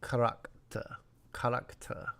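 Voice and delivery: French 'character' with open ah vowels; evenly stepped French 'character'; French pronunciation. Shown as a demonstration. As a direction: say 'character' as ka-rak-ta, in even steps. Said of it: "in French the syllables".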